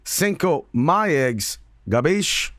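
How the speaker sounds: slow, reluctant mobster voice; Italian-American mobster. Retold or imitated. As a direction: drag it out like a bored mobster. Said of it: "You're making me say this?".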